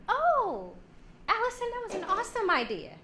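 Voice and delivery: high, fast fake enthusiasm; gushing praise. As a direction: gush over her idea. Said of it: "Women, we try to".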